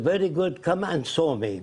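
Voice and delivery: lightly mimicked Arab accent; imitated Arab accent. Arab leader invites the caller over, imitated Arab accent. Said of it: "He said in his accent".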